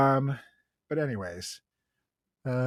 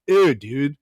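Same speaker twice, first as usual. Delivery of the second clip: higher, disgusted ew; grossed out; 7 semitones higher than usual. Retold or imitated. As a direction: recoil in disgust.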